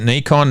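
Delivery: "Nikon" opening with a long ee; Japanese-style Nikon. Shown as a demonstration. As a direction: say Nikon as NEE-kon. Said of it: "asks the question of the ages".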